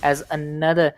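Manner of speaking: brisk live play-by-play; esports caster. Acted. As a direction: call the round like a caster.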